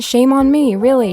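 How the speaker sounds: a playful cry of shame on yourself; mock shame. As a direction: scold yourself in mock outrage. Mock self-scolding outburst.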